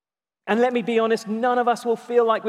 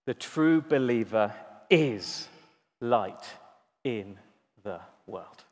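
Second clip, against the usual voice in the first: slow and fading much softer and lower; hushed, reverent quote; 9 semitones lower, 6 dB quieter, slower than usual. Acted. Preacher voicing Jesus' words to believers, slowing into a soft hush. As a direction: let it sink to a near hush. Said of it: "he's saying this".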